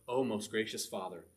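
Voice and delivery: a hint of grand, ceremonious address to a father; mock King James prayer. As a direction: lightly parody flowery, formal praying. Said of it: "they don't speak in King James".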